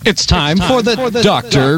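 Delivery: show announcer. Acted. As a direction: announce the show's star. Show host introducing the doctor.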